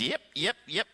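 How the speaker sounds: lightly imitated Arkansas accent; short repeated yeps with an Arkansas twang; Bob Jones. Odd prophet feeling the air, mild Arkansas accent. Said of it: "He's got this accent".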